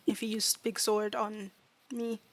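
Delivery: earnest, broken-English fairy voice; fairy reasoning it out haltingly; small fairy student. Acted. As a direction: explain the danger in simple, careful words. Fairy explains its small size.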